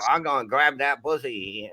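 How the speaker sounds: mock hillbilly accent, lightly done. Comic retelling a friend's stage rant, light hillbilly accent. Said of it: "I'm doing a fucking hillbilly accent".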